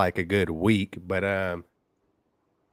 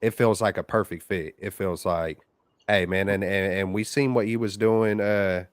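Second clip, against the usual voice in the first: over the phone. Real, not acted. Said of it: "another caller on the line".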